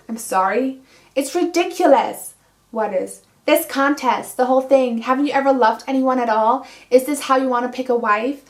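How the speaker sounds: dramatic book reading. Acted. Reviewer reads the heroine arguing with the prince, lively. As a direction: read out the garden quarrel with relish.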